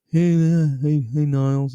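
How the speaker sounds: imitated calling out. Retelling a documentary scene, imitated calling out. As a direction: call out like you're hailing a housemate.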